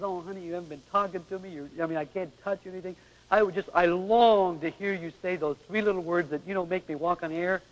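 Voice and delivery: soft, hushed longing plea; lightly voiced longing husband. Husband longing for three little words, softly. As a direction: sigh it out softly to your wife. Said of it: "If a man says".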